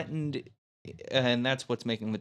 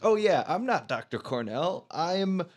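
mock dramatic reveal; 5 semitones higher, 5 dB louder than usual.

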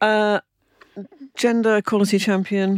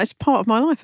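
louder and higher, insisting it's true; emphatic insistence; 6 semitones higher, 4 dB louder than usual. Real, not acted. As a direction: press it home in earnest. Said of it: "I'm seriously not joking about that".

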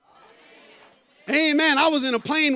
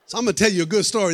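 laughing; 3 semitones lower, 3 dB louder, faster than usual. Real, not acted. Laughing intro to exaggerated story.

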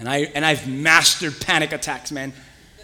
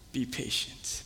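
unvoiced hush; whispered voice of God; 4 semitones lower, 13 dB quieter, slower than usual. God whispering to the impatient believer, hushed. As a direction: breathe it like a secret.

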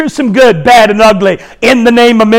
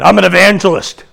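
like a dirty word; 4 semitones lower than usual. Retold or imitated. Preacher owning up to unbelievers, evangelist said like a dirty word. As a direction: blurt it like a mock curse. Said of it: "like I said a dirty word".

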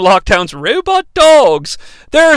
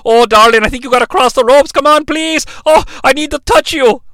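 lightly voiced cooing plea, pitched up; mock pleading lover; 4 semitones higher than usual. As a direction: coax a darling with hammed-up longing. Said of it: "they have an argument while they're crossing ropes".

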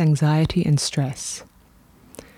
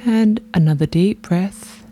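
guided meditation. Real, not acted. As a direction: lead them gently through each breath, unhurried.

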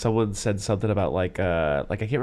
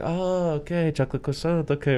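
higher-pitched "oh, okay" of getting it; light, higher imitation of relieved understanding; retold dawning realization; 6 semitones higher than usual. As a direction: mimic someone finally catching on. Retold clerk finally understanding.

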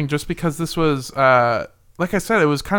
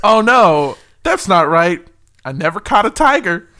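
sincere correction; 6 dB louder than usual. Retold or imitated. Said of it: "That's how he said it".

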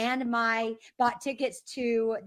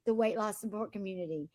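nice welcome message; 3 dB quieter than usual. Retold or imitated. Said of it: "a nice message that says".

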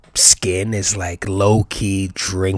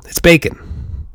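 reverent whisper; 7 semitones higher, slower than usual. Acted. Host whispering his love of bacon, hushed. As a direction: breathe it out high and hushed, slow.

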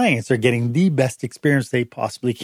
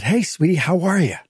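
cheery greeting; 5 semitones higher than usual. Retold or imitated. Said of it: "if I came and said".

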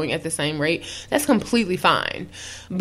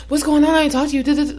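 needy text; 6 semitones higher, much faster than usual. Retold or imitated. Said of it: "she's like".

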